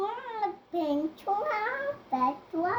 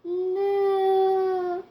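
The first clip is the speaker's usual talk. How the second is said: cow moo; 4 dB louder than usual. Real, not acted. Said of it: "what does the cow say?".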